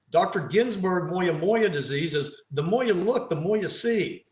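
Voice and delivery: playful New York accent pun. Shown as a demonstration. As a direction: give the New York accent to "moya look, the moya see". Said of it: "if you're from New York".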